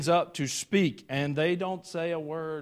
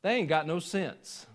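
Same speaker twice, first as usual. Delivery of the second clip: higher-pitched Southern drawl; 4 semitones higher than usual. Shown as a demonstration. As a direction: put on a folksy Southern drawl. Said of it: "in your southern drawl".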